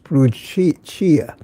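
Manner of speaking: Brucia sounded out with an Italian "ch"; Italian pronunciation. Shown as a demonstration. Host shows how Italian would say it, Brucia with "ch". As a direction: say Brucia as "broo-CHEE-a". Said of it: "I imagine it's pronounced".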